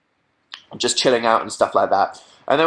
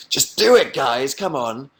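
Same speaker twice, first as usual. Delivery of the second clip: urging; slower than usual. Real, not acted. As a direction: nudge the chat to act now. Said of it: "urging viewers".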